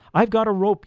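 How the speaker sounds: high, eager-to-help call. A narrator's reading. Peter offers the trapped elf help, calling down. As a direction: call down to someone below.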